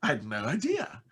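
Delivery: high, surprised client voice; quoted surprised client. Retold or imitated. Client amazed he is American, high surprised question. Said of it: "they go".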